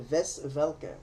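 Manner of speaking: Wes Welker with German V sounds; German accent. Shown as a demonstration. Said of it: "in German".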